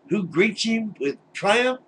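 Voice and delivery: high, slow teasing build-up; mock suspense. Real, not acted. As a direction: drag it out to the reveal. Building to punchline.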